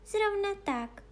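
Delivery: high little princess voice. Acted. Small princess answers the judge, high-voiced. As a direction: voice a small princess, pitched well up.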